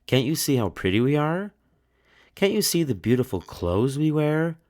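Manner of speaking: high, haughty insistence; insisting proudly. A narrator's reading. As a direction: show off your beauty, indignant. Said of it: "they insisted".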